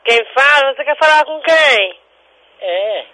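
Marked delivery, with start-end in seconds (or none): 0.1-2.0 higher, insistent phone demand; real irritation. Real, not acted. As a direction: demand to know who they want. Annoyed at an evasive prank caller.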